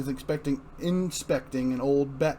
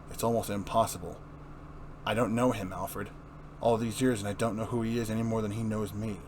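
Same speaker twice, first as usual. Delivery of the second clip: lower, sombre Batman voice; a dark hero musing, pitched lower; brooding Batman; 4 semitones lower, 3 dB quieter than usual. Acted.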